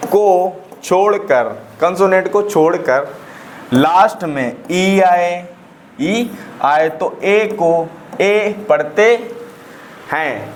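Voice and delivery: very slow, word by word, with pauses; slow dictation. Real, not acted. Teacher dictating the second rule to students, slow dictation. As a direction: dictate it in short separated chunks.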